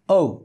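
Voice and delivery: "ও" as isolated oh-oo glide; English vowel demo. Shown as a demonstration. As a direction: let "ও" slide into oo. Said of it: "তাহলে এখানে হবে". ("ও" ওউ, আলাদা করে)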